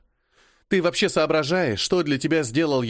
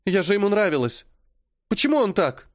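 high, broken tearful lament; bitterly weeping girl, higher; bitter crying; 8 semitones higher than usual. A narrator's reading. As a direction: cry out the question. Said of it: "Она опять горько заплакала".

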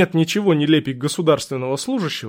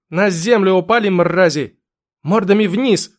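louder barked police order; commanding shout; 4 semitones higher, 4 dB louder than usual. Acted. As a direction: order them down hard. Officer orders men to the ground.

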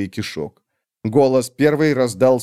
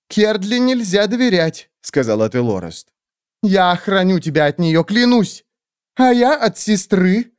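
much higher squeaky groveling bird voice; fawning creature; 8 semitones higher than usual. Acted. Skeletal bird creatures grovelling before the great witch, high squeaky.

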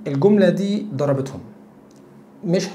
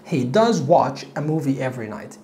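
slow correct example; 3 semitones lower, slower than usual. Shown as a demonstration. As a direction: correct sentence read slowly. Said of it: "فهقول he does".

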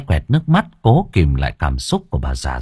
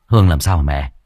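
impatient worry; 6 semitones lower than usual. Acted. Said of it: "Tôi nóng ruột".

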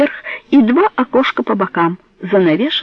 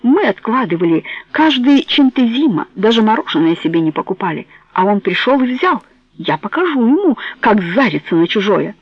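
heated; 2 semitones higher than usual. Acted. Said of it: "горячился Джованни".

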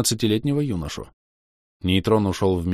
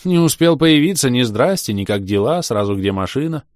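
loud, higher hurt complaint; offended; 6 semitones higher, 6 dB louder than usual. Acted. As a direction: sound offended. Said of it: "обиженно отозвался друг". (обиженно)

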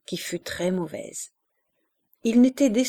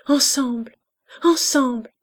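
feverish whisper; 6 semitones higher, 5 dB louder than usual. A narrator's reading. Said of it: "d'une façon convulsive en répétant".

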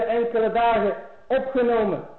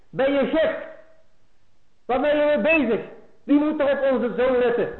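angry wife; 5 semitones higher than usual. Retold or imitated. Wife scolds husband over his mother.

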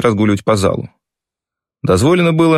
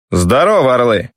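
quiet but clear command; 2 semitones higher than usual. A narrator's reading. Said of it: "негромко, но очень внятно".

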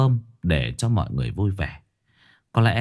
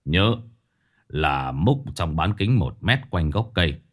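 put-on stern old master; 4 semitones lower than usual. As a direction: command the workers calmly from low in the chest. Exorcist master gives orders. (giọng thầy pháp trầm, chậm rãi)

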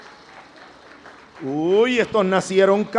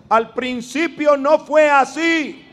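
mock child's retort; 5 semitones higher, 4 dB louder than usual. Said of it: "solo díganles".

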